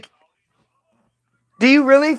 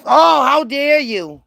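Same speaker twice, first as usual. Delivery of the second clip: higher, slow, put-on offended voice; mock outrage; 5 semitones higher, slower than usual. Mocking critics who take offence, sneering put-on outrage. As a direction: clutch the pearls in a sneering put-on voice. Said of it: "But then if you say".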